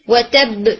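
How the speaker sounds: و تب with the lips only parting on the ب bounce; و تب with a clean bounce and no vowel; correct qalqala. Shown as a demonstration. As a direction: part the lips slightly on the final ب of و تب. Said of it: "صرف آپ کے lips الگ ہوں گے".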